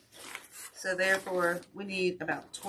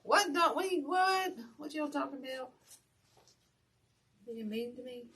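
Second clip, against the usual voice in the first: mock indignant surprise; 8 semitones higher than usual. Real, not acted. Reacting to viewer teasing comment.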